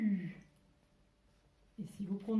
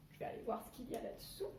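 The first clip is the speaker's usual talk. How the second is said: fast, hushed whisper; whispered peek; 9 dB quieter, much faster than usual. Pretend. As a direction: whisper as if sneaking a look. Peeking under cover. (chuchoté, rapide)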